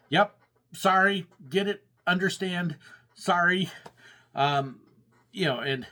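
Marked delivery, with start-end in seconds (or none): 0.1-3.7 nod along and recite apologies without meaning them; mock customer-service placation; dismissive placating. Brushing off complaints, just nodding.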